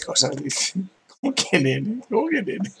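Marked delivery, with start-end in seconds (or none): 1.2-2.0 first ask, only a little raised; mild puzzled question; mildly puzzled. Real, not acted. First, milder asking. 2.1-2.7 repeated much higher, in disbelief; high incredulous echo. Real, not acted.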